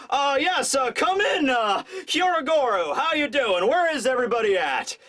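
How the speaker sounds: lightly voiced man checking in over a line; hesitant snail-phone call. Kinemon calling his allies on the snail, hesitant hailing. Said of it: "he starts talking, and he's just like".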